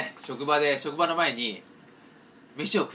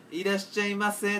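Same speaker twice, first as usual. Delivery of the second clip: slower, higher, drawn-out welcome; odd clerk's greeting; 6 semitones higher than usual. Retold or imitated. Clerk greeting customers at a tsukemen shop, drawn out and odd. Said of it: "ちょっと違った感じなの".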